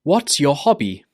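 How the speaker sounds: "What's your hobby?" starting high, falling on "hobby"; falling intonation. Shown as a demonstration. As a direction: drop down at the end of "hobby". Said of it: "needs to go down at the end".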